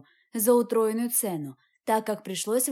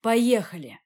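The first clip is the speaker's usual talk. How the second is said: short, louder growled command; man growling at Katya to come along; 4 dB louder than usual. A narrator's reading. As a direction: bark it as you grab her hand. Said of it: "прорычал я".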